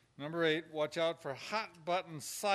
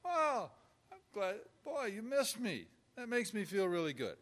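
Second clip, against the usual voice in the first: a touch of glad surprise, higher; pleased warmth; 6 semitones higher, 3 dB louder than usual. Shown as a demonstration. Pastor answering a parishioner who missed him, lightly pleased. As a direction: lift the voice, touched they missed you. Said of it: "you pick up on that rather than get defensive".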